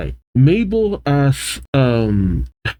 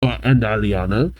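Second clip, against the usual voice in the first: lightly put-on French accent; loose, measured French accent. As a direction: voice a villain boss with a hint of French. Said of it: "I'm giving a French accent".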